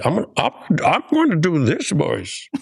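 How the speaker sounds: mock English accent, laughing at the end; a hammed-up English accent for the director. Retelling the audition, a mock English accent for the boys. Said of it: "Try with an English accent".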